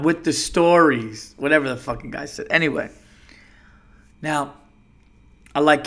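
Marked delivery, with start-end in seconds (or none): 0.0-1.3 movie quote. Retold or imitated. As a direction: imitate a film character, dragging the words. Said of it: "Step Brothers".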